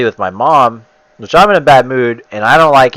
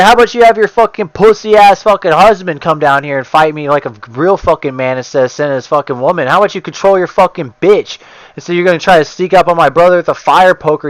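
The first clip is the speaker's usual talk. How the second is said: high, loud furious shouting; ripping into him; 7 semitones higher, 3 dB louder than usual. Retold or imitated. Screaming at the neighbor's husband to come fight, furious. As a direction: tear into him like a gamer raging. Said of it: "I just started ripping into him".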